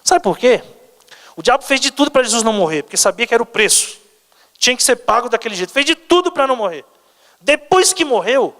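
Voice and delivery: proclaiming to a congregation; impassioned preaching. Acted. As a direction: preach it with rising urgency. Preaches in a raised voice.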